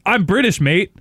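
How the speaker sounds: a hint of pompous British poster; insistent Brit. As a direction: tack on the mate like proof of Britishness. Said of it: "as if he needed to prove more that he's British".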